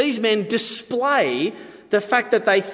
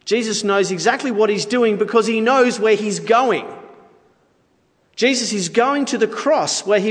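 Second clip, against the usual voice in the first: raised, forceful declaration; emphatic conviction; 5 semitones higher, 3 dB louder than usual. Real, not acted. Preacher declaring where Jesus is going, emphatic. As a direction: drive the statement home with more pitch and volume. Same line repeated with force.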